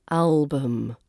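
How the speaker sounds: "album" ending in an unstressed -bəm; schwa in album. Shown as a demonstration. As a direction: reduce the U of "album" to a relaxed uh. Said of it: "it's that U is the schwa".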